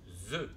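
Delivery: « Z » dit « ze », z sonore. Shown as a demonstration. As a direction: isoler le son z voisé, comme « ze ». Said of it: "on aura bien le son". (le son « ze » isolé, bien voisé)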